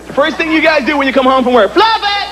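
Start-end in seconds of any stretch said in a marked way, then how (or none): 1.7-2.3 mock pet owner cooing. Mocking white pet owners.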